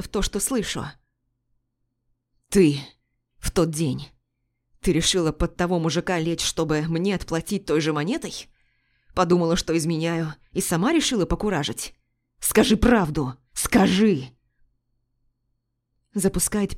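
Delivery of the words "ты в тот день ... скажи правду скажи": pressing, hurt interrogation; jealous husband cornering his wife; angry demand. Acted. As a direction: demand the truth, voice rising.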